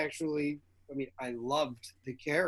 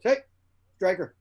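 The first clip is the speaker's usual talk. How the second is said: imitated hail to stop someone; lightly called out to get attention; producer's interrupting call; 3 semitones higher, 5 dB louder than usual. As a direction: cut in with a brief call. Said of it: "one of the producers cuts me off".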